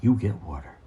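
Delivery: low, flat command from the stepdad; a hint of a gruff stepdad; stepfather's curt order. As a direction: hand down the rule as the stern stepfather. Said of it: "He's like".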